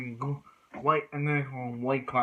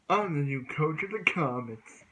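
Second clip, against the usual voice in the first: lightly voiced anime coach impression; Rentaro; 3 semitones higher than usual. New coach introducing himself to the team, lightly imitated. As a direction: put on a hint of the new coach's voice. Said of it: "trying to do my best Rentaro impression".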